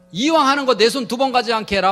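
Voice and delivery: hammed-up domestic warning; bossy mock threat. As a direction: order the husband about, mock-threatening. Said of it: "막 협박을 해요".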